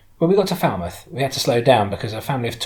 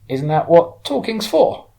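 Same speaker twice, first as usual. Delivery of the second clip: slow, higher, louder question through a smile; smiling; 9 semitones higher, 8 dB louder, slower than usual. A narrator's reading. Woman driver questioning her puzzled passenger, slow and smiling. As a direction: ask it with an amused smile. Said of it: "still smiling".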